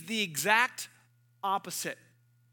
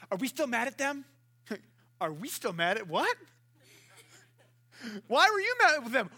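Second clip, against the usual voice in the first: mock gossiping girls. Girls joining a friend's feud, a lightly mocking gossip voice. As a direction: play the confused friend catching up on the feud.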